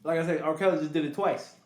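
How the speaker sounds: talking through a mouthful of food; mouth full. Real, not acted. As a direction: say it around a bite of pizza. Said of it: "you had your mouth full".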